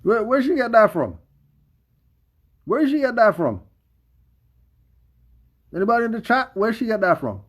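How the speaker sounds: real indignant shock at what she said; who said that, loud and stunned; incredulous outburst. Real, not acted. Outraged at the other speaker's words.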